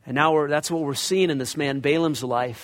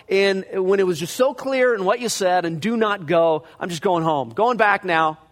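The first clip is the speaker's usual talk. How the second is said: mock eager turnaround; 3 semitones higher, 3 dB louder than usual. Preacher acts out Balaam turning back.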